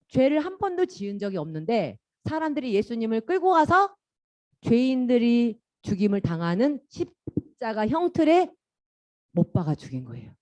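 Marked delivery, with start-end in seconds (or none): none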